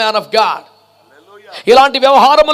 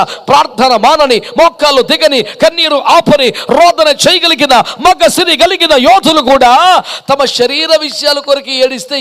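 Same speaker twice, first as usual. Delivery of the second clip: full-force preaching. Real, not acted. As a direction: build the list into a forceful cry.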